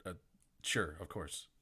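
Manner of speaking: lightly voiced French accent, agreeing; a hint of a French accent. GM voicing an NPC agreeing to be carried, a hint of a French accent. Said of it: "I gave her the French accent that Frisidna has".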